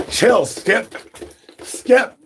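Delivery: high call telling Skip to chill. Acted. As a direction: shout over to Skip to calm down. Calling out to Skip.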